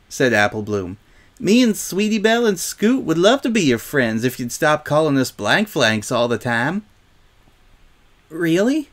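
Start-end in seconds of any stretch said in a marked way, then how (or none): 1.4-6.8 higher, friendly filly voice; lightly voiced Apple Bloom. Apple Bloom invites Silver Spoon to be friends, warmly. 8.3-8.9 high, mildly tearful question. A narrator's reading. Silver Spoon hears the friendship offer, tearfully. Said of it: "said Silver Spoon tearfully".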